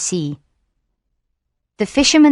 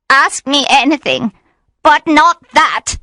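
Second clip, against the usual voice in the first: pleading through tears; 8 semitones higher, 4 dB louder than usual. A narrator's reading. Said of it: "She began to cry".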